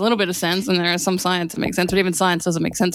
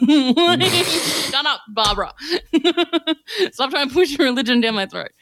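higher, laughing mock telling-off; laughing rebuke; 5 semitones higher, slower than usual. Comedian telling imagined Barbara to stop pushing religion, laughing mock rebuke. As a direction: laugh through a pretend scolding.

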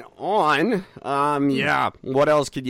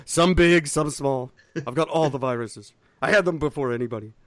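Trump voice. Retold or imitated. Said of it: "that's my Trump voice".

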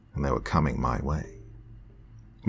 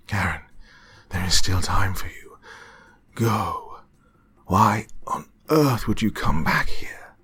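growled warning; 3 semitones higher than usual. Acted. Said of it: "he asked with a growling voice".

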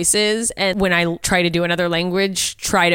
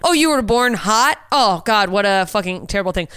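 mocking pageant woman. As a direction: lay on the fake sympathy.

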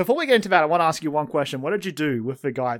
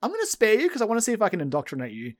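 mock taunting; 4 semitones higher than usual. Taunting the boss when sparing him.

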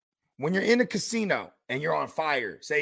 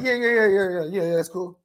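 brushing people off; faster than usual. Retold or imitated. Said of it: "sometimes I just be like".

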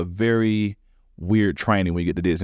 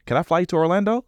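imitating the boss; 10 semitones higher than usual. Boss offers the flight.

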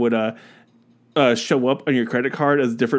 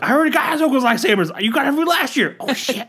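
1 mock girlfriend complaint; 13 semitones higher than usual. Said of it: "And, like".

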